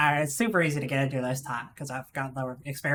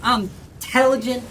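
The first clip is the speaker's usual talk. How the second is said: put-on Southern accent. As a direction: brag like a smug country boy. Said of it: "do the Southern accent".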